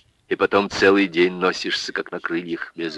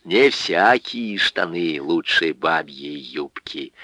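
put-on lecturing drunk; slower than usual. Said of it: "изрёк поучающий Пётр Житов".

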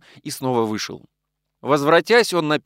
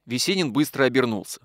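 usual speaking voice

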